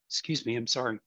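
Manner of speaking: quiet, throat still catching; apologising after a coughing fit; hoarse after coughing. Real, not acted. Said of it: "I apologize for the, um, coughing".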